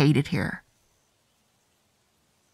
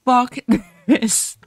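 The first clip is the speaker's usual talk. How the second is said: frustrated outburst; 5 semitones higher, 5 dB louder than usual. Real, not acted. Frustrated outburst at sad ending.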